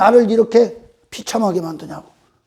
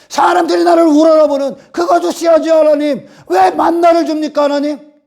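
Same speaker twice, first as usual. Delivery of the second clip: complaining flesh; 3 semitones higher than usual. Retold or imitated. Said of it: "불평하는 거요".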